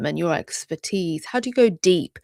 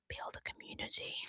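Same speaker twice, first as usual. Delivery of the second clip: whisper; 14 dB quieter than usual. Acted.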